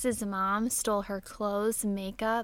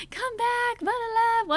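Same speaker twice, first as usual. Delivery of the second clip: high, loud calling after a dog; shouting for a runaway dog; hollering; 12 semitones higher, 5 dB louder, slower than usual. Retold or imitated. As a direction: holler it across the yard. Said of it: "I'm hollering".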